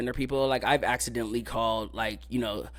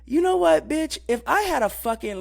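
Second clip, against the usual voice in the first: high, loud retort; a sudden shrill snap of sass; sassy outburst; 12 semitones higher, 5 dB louder than usual. Retold or imitated. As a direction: fire it back with attitude. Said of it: "And I'm just like".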